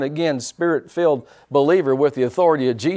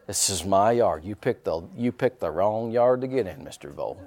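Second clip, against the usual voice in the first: mock menace; 4 semitones lower, 4 dB quieter than usual. Preacher warning Mister Vole off his yard, mock menace. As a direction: sink quieter into a playful threat on the name.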